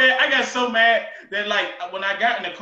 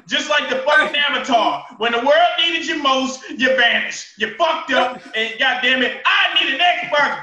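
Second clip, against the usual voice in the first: louder, shouting rant; angry rant; 2 semitones higher, 4 dB louder than usual. Real, not acted. Gamer rants at GameStop about the missing Xbox, angry shout. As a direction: vent the fury at the store.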